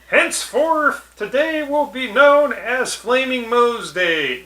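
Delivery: high, slow proclamation; Mayor Quimby. Acted. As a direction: declare it like a pompous mayor at a dedication. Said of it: "Mayor Quimby, is out there to dedicate it".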